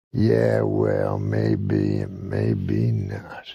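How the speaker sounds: drawn-out, slow redneck comeback; doubting redneck. Acted. Redneck customer doubts the bookseller's English, slow skeptical redneck. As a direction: stretch it slowly, dropping low at the end.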